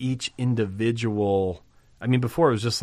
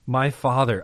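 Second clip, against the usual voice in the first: tender address; 4 semitones higher, 4 dB louder than usual. Acted. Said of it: "a confession of the relationship".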